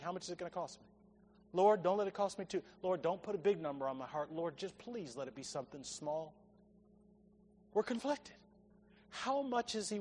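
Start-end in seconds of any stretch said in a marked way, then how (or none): 0.0-6.3 soft, hurried imitation of a nervous prayer; hushed, mock-anxious pleading; mock fearful prayer. 7.7-8.4 quieter, sobering echo; hushed confession; soft repeat. Shown as a demonstration.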